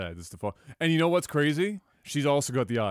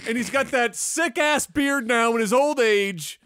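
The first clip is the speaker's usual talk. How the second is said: high, loud, emphatic gushing; impassioned rave; 11 semitones higher, 6 dB louder than usual. Real, not acted. Podcaster raving about his favourite actor, impassioned. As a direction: rave at full volume to the last word. Climax of loud playful sales pitch.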